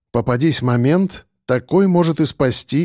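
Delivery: ordinary delivery, nothing marked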